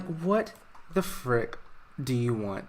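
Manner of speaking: a son sneering at his estranged dad, mock grumpy; mock grumpy snap. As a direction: drag out the words with a grumpy sneer.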